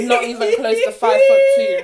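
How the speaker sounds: high loud laughing tease. Real, not acted. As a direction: squeal it through laughter. Laughing teasing.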